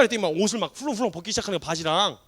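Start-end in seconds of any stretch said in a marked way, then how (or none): none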